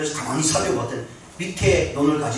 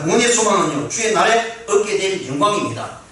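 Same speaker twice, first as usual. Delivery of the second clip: high, loud, impassioned sermon delivery; full-force preaching; 9 semitones higher, 7 dB louder than usual. Real, not acted. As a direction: proclaim hope to the congregation with rising fervor. (높고 힘찬 목소리로 외치는 설교)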